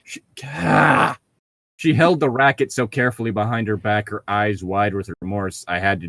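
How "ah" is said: exclaimed ah. Real, not acted. Cries out mid-reading.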